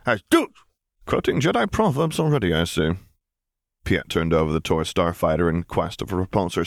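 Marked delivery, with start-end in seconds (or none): 0.1-0.5 put-on high, stern little child voice; a small child laying down the law; severe toddler. A narrator's reading. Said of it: "Ben said severely".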